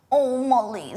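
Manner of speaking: imitating a patronising old friend; condescending friend. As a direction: talk down to her sweetly. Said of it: "speak to me like that".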